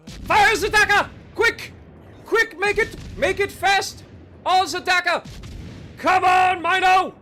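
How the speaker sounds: hammed-up German battle cry; mock German accent. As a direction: bark urgent orders in a playful German accent. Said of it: "I'm talking like a German".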